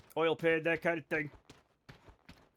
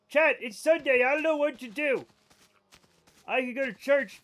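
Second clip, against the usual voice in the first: excited whine; 6 semitones higher, 7 dB louder than usual. Acted. Excited whining to chat.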